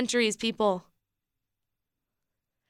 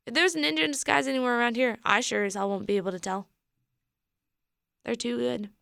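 voice giving out; faster than usual. Real, not acted. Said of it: "my voice is giving out".

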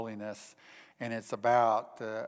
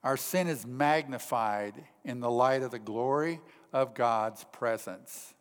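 ordinary talk

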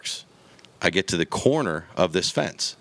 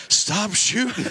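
dad ordering; 13 semitones higher, much slower than usual. Retold or imitated. Dad ordering his son to stop firing, high mock command. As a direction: make him stop right now. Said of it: "He goes".

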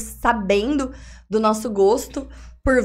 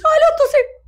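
mock excited squeal; 7 dB louder, faster than usual.

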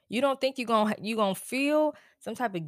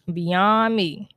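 emphatic repeat; 5 dB louder than usual. Real, not acted. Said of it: "it's beyond me".

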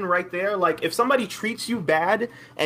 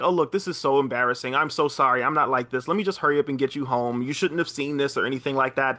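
lower, embarrassed apology; apologetic guy; 6 semitones lower than usual. Retold or imitated. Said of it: "expecting him to say something like".

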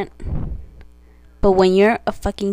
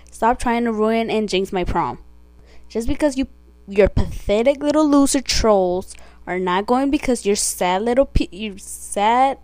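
angry rant. Real, not acted. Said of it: "let me redo this".

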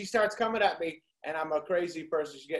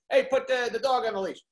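yelling; 3 semitones higher, 5 dB louder, faster than usual. Retold or imitated. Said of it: "So I start screaming".

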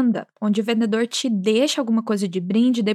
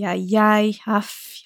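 sighing interjection; much slower than usual. Shown as a demonstration. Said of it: "dando aquele sentido de ai".

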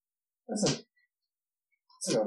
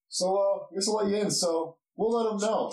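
lightly voiced guard, pitched higher; a hint of an agreeable gatekeeper; obliging dwarf guard; 6 semitones higher than usual. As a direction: wave visitors through in a lifted voice. GM voices guard letting party in.

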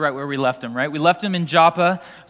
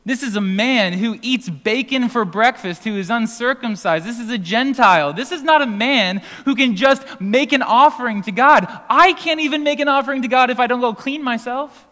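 a bit higher, louder, incredulous; mock alarmed objection; imitating a puzzled Jew; 4 semitones higher, 4 dB louder than usual. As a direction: play a scandalized Jewish listener. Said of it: "A Jew would have read this and thought".

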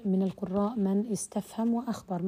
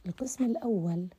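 ordinary delivery

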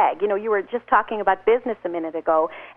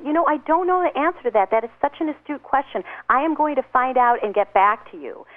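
sincere honest answer; 4 semitones higher than usual. Shown as a demonstration. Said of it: "That is so impressive".

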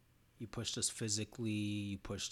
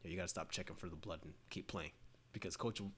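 whispering; 4 semitones lower, 8 dB quieter than usual. Retold or imitated. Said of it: "like, whispering".

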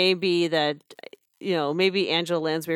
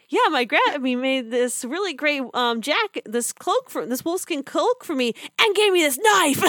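put-on bright, higher eager little girl; excited kid; 9 semitones higher, 3 dB louder than usual. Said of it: "it's like".

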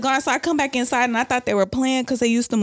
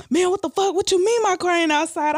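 shocked outburst; 10 semitones higher than usual. Retold or imitated. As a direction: blurt it out, stunned and angry. Boyfriend reacts to stolen car.

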